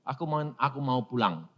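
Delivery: put-on soft, fading child's answer; weak child's voice. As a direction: answer faintly like a sick child. Dying child answers softly. (suara anak lemah dan pelan)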